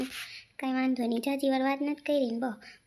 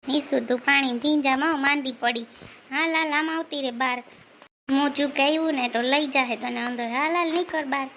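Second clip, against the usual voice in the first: fast, louder urging; calling out; 4 dB louder, much faster than usual. Acted. Husband calls Nisu out of the rain, fast and loud. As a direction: hurry her in, raised voice.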